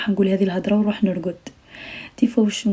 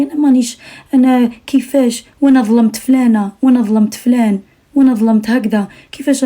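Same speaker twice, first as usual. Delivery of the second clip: mock guilty self-talk; 3 semitones higher, 3 dB louder than usual. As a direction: play the guilt-ridden girl talking to herself, half-acted. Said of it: "تقولي". (تقليد خفيف لبنت نادمة)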